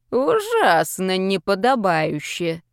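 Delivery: put-on slow disapproving old man; reproachful, slow. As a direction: drag it out with reproach. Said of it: "укоризненно качая головой". (укоризненно и медленно)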